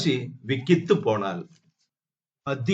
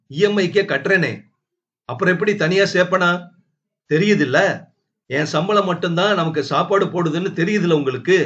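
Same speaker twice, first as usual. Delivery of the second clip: fast, raised angry husband; heated argument; 4 semitones higher, faster than usual. Acted. Husband argues heatedly with his wife, fast and raised. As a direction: argue back hard.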